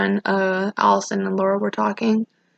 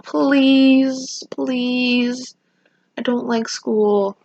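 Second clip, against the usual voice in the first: drawn-out, higher-pitched pleas, imitating crying; retold tearful pleading; 4 semitones higher, much slower than usual. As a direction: stretch each please in mock begging. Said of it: "and I'm crying".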